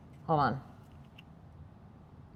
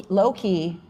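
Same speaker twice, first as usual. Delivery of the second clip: usual speaking voice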